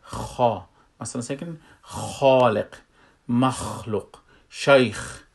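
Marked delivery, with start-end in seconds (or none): 0.0-0.6 "خا" with a heavy scraped kh and rounded a; full-mouthed kha. Shown as a demonstration. Teacher demonstrating istila letters, full kha in "خا". 1.8-5.2 "خالق", "مخلوق", "شیخ" with a heavy, scraped kh; full-mouthed kha. Shown as a demonstration. Teacher giving istila examples, full kha in "خالق", "شیخ".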